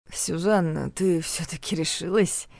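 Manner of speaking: slow, drowsy mumbling; sleepy mumble. Acted. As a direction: mumble it half asleep. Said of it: "сонно пробормотал он".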